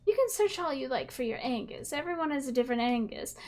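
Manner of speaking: lightly voiced pastor, gentle and pious; mild churchy preacher voice; a hint of a preacher. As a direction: ask like a kindly minister. Preacher sermonizes about Angus.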